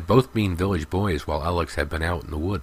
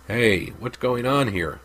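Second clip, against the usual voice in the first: higher and slow, stern challenge; demanding; 5 semitones higher, slower than usual. A narrator's reading. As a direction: call out from across the field. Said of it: "demanded one of the inspectors".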